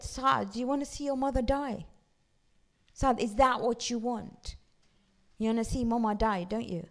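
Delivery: lightly voiced mom laying on the guilt; mild mock pleading mother; guilt-tripping mother. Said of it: "And she said".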